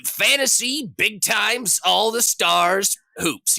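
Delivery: high, loud, drawn-out title shout; hyped game-title announcer. Retold or imitated. Old games naming themselves, in a high hyped announcer voice. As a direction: punch out each phrase like an arcade announcer. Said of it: "the games always be like".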